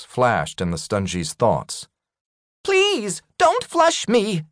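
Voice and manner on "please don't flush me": very high, squeaky panicked begging; terrified plea. A narrator's reading. Shrunken Rykub begging not to be flushed, panicked. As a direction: beg for your life in a tiny voice.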